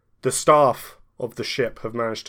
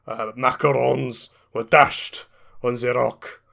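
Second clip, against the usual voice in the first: put-on Scottish accent. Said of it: "I am Scottish".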